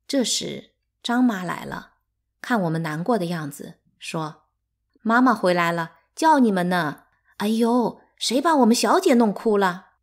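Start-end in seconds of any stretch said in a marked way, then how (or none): 5.0-9.9 1 fussing nanny. A narrator's reading. Nanny fusses over crying children.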